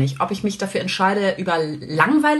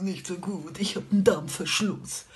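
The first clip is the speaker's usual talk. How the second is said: much softer, slow, pitiful; suffering whine; 8 dB quieter, slower than usual. Retold or imitated. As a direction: moan it out like a martyr. Voicing a suffering acquaintance. (leidend leise gejammert)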